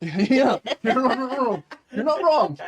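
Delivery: loud, high-pitched laughing concession; cracking up while agreeing; laughing agreement. Real, not acted. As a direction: agree through a real burst of laughter, voice jumping up. Amused by the face joke.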